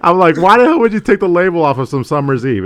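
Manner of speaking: high, laughing retelling. Real, not acted. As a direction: laugh through the story. Laughing at own story.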